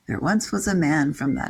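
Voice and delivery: bouncing limerick rhythm on "There once was a man"; sing-songy limerick. Shown as a demonstration. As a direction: lilt "There once was a man" with regular metrical beats. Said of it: "in this sing-songy way".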